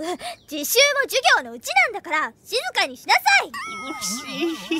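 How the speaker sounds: scolding. Acted. Class rep scolding.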